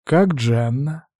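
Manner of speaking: choked, slow, barely getting it out; muffled, strained voice, holding back tears; strained question. A narrator's reading. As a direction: ask through a tight throat, sniffling. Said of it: "вопросил сдавленно".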